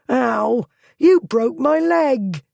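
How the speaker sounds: high, loud wailing complaint; pained yell. A narrator's reading. Thief wailing at Blackwood after being dropped, high and loud. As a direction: howl about the leg.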